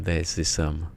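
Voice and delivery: put-on half-successful Australian accent; attempted Australian accent. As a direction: have a rough go at an Australian accent. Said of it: "I'm trying to do an Australian accent then".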